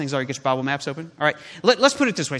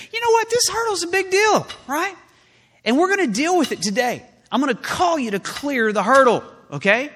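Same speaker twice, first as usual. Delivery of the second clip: rallying call; 8 semitones higher than usual. Pretend. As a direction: pump the crowd up to clear the hurdle. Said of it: "come together and say".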